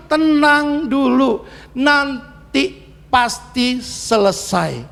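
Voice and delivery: slow, gentle reassurance; slow it down to calm him; soothing father. Retold or imitated. Father calming his child, slow and gentle. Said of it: "father soothes child".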